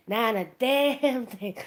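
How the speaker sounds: slowed, in a put-on voice; slow comic punchline. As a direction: drag out "damn" for the laugh. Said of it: "Wayne Brady comes out and goes".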